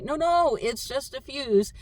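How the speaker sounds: imitating commenters correcting her; mock know-it-all. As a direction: brush it off like a know-it-all viewer. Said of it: "a lot of people are gonna say".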